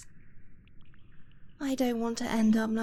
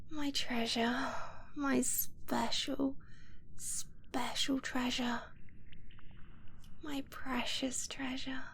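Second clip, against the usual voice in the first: soft, breathy whisper, lingering on the endearments; slow, adoring whisper to the one in your arms; tender whisper; 5 dB quieter than usual. Acted. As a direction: murmur it close as you hold him. Whispering while cuddling partner.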